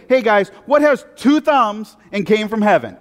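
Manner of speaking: casual, loud jokey call to the crowd; joking buddy voice. Retold or imitated. Preacher voicing Jesus as a joking buddy, loud and casual. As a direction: ham it up like a guy bragging to friends. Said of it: "Jesus is saying".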